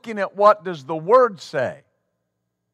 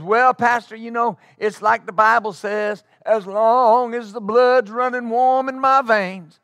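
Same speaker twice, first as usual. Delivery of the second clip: pompous testimony voice; 3 semitones higher than usual. Retold or imitated. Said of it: "he goes".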